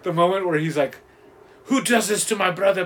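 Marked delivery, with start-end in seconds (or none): 1.6-2.9 slightly raised Russian villain voice; imitated Russian villain. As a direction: play the Russian demanding answers. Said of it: "but the Russian guy".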